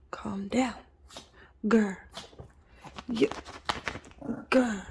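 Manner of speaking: soft hushing whisper; whispered calm down. Real, not acted. Hushing an overexcited puppy, a whisper. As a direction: whisper to settle her.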